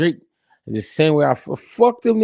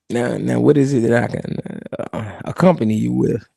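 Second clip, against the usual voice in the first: put-on calm old boss; 4 semitones lower than usual. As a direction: settle the kid down gently. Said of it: "then he tell a nigga".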